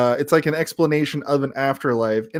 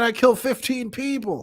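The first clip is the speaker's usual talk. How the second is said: higher mock-dramatic Boone voice; Boone confessing; 10 semitones higher than usual. Recapping Boone's shady past for co-hosts, as a higher mock-dramatic confession. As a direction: play up the hero's dark confession.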